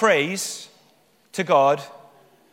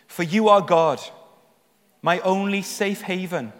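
scripture reading; 4 semitones higher, 4 dB louder than usual. Acted. Reads psalm aloud with rising fervour.

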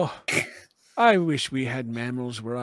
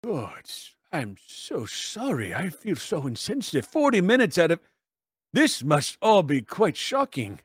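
apologetic doctor. Acted. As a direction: ease the shock for a flustered newcomer. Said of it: "Even Doctor Ceratops turns and goes".

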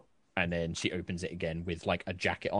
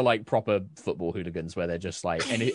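normal talking voice

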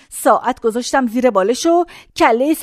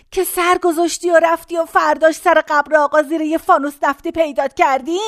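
ordinary delivery

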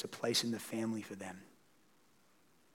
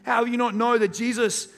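higher, louder, pouring out the shocking news; grieving travellers blurting it out in disbelief; distraught disbelief; 9 semitones higher, 7 dB louder than usual. Pretend. Two grieving disciples telling a stranger the news, louder and higher in disbelief. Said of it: "they say".

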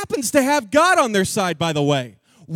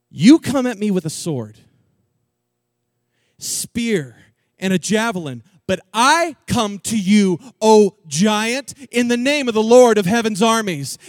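louder, firm declaration; bold retort; 2 semitones lower, 5 dB louder than usual. Acted. David answers Goliath with a bold, loud declaration. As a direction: stand tall and declare it. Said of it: "David retorts back".

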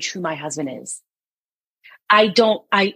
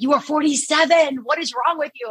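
mock exasperation; 6 semitones higher than usual. Husband's exasperated reply, retold.

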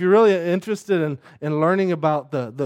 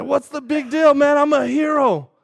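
flippant son; 10 semitones higher, 5 dB louder than usual. Retold or imitated. Son brushing off angry mom.

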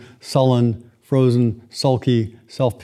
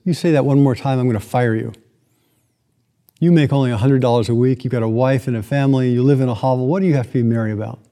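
scolding Scrooge; faster than usual. Acted. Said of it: "Scrooge says".

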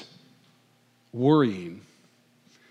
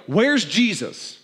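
frantic search; 8 semitones higher, much slower than usual. Retold or imitated. Disciples in the storm calling for Jesus, slow and high. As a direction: call out for him in a panic.

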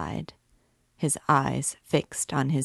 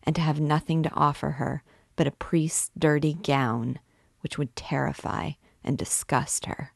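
tormented priest pleading, voice rising in passion; anguished priest. Acted. Priest begging the gypsy girl, anguished pleading. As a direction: beg her like a man on the rack.

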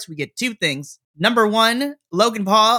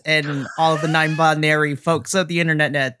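attempted Irish accent. Greeting podcast listeners in an attempted Irish accent. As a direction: try on a lilting Irish accent, not quite landing it. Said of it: "That was, that was almost an Irish".

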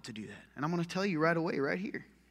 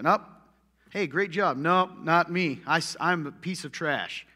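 mock self-putdown; 2 semitones higher, 5 dB louder than usual. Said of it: "idolize self-hatred".

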